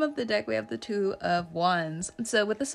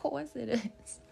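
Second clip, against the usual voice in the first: laughing put-on accent; 3 semitones higher, 5 dB quieter than usual. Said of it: "That is not my natural accent".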